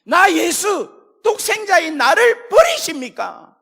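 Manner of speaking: high, loud, slow anguished cry; anguished cry of Jesus. Acted. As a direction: cry out from the cross in agony. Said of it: "예수님이 십자가에 달려 돌아가실 때". (십자가 위 예수님의 절규)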